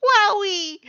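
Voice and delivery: very high, loud whoop of joy; overjoyed Papyrus. A narrator's reading. Papyrus learns he has a friend, high joyful whoop. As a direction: burst out with delight.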